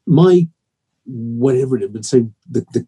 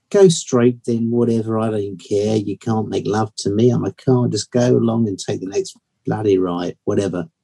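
lightly wistful sat nav, lower; a bit wistful; 3 semitones lower than usual. Acted. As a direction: play a mildly wistful, resigned car voice. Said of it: "she sounds a bit wistful".

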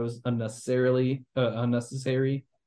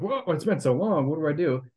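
higher-pitched imitated shock; lightly hammed-up bewilderment; mock surprise; 4 semitones higher than usual. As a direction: act out waking up startled. Acts out a character waking up shocked.

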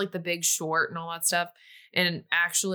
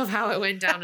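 laughing. Real, not acted. Laughing at the Oscars mix-up.

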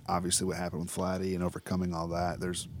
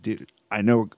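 excited friends; 3 semitones higher, 7 dB louder than usual. Retold or imitated. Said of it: "they were like".

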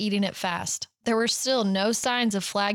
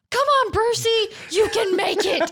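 high shouted cheer; 11 semitones higher, 3 dB louder than usual. A narrator's reading. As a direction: call it out from the crowd. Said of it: "you gotta shout it in a British accent".

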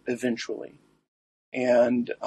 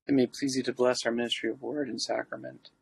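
prayer; 4 dB quieter than usual. Acted. Recites the litany.

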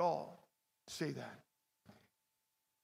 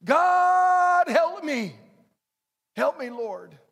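high, loud mock cry for help; pleading loudly, voice pitched up high; desperate plea; 8 semitones higher, 11 dB louder, much slower than usual. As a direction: beg God like you're in trouble. Desperate people cry to God.

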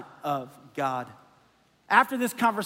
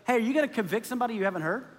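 Nicodemus challenging; 3 dB quieter, much faster than usual. Retold or imitated. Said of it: "He goes".

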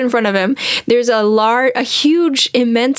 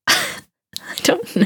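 breathy whispered shrug, softer and higher; 13 semitones higher, 5 dB quieter, faster than usual. Real, not acted. Trailing shrug after laugh.

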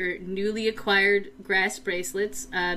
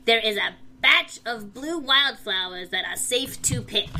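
a small goblin trying to boom like an oracle; booming goofy goblin; 4 semitones higher than usual. Acted. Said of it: "booming voice that just sounds very goofy in this goblin voice".

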